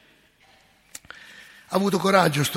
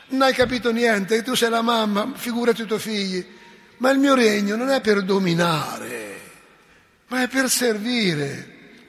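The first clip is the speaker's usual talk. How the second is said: firm rebuke; 4 semitones higher, 4 dB louder than usual. Retold or imitated. Jesus rebukes the mother.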